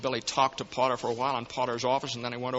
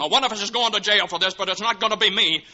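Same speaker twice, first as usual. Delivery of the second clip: loud, higher, bitter declaration; angry outburst; 7 semitones higher, 4 dB louder than usual. Acted. George refusing to take the fall, loud and bitter. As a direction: slam the blame away from yourself.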